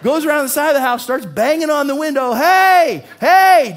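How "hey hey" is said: loud, high-pitched hollering; full shout, pitched way up; yelling. Retold or imitated. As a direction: holler hey at someone indoors. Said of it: "just kinda yelling".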